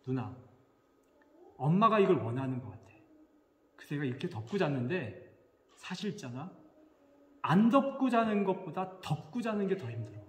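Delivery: retold mild, restrained explanation; softened, patient confiding tone; gentle. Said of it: "순하게 먹고 얘기했어요".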